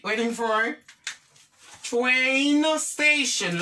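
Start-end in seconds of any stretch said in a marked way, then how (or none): 1.8-3.6 "Train station" with TRAIN drawn out long; demonstrated pronunciation. Shown as a demonstration. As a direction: stretch out "Train" before saying "station". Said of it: "like this".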